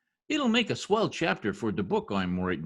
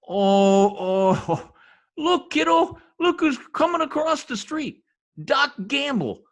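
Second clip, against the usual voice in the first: high, loud, gloating glee; gleeful excitement; 10 semitones higher, 6 dB louder than usual. Acted. Husband spots Doc Gamble crossing the street, gleeful and loud. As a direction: crow with delight as the rival approaches. Spots his rival coming.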